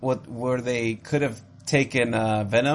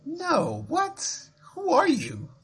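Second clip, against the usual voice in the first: incredulous; much slower than usual. Real, not acted. Mock outrage at Titanic guess.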